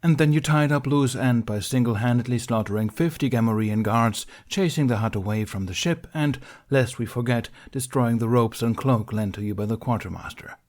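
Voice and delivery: a stern council master, formal and pressing; stern Mace Windu. Acted. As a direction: read out the charges like a cold judge. Mace ends the charges.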